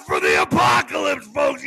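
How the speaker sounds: very low, booming radio announcer; deep announcer voice. Acted. Host opening the apocalypse stream like a booming announcer. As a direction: drop into a monster-truck announcer growl.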